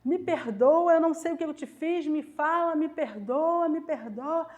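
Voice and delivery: insistent retold plea for forgiveness; gritando, suplicando. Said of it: "eu fui gritando atrás dela". (súplica insistente, encenada)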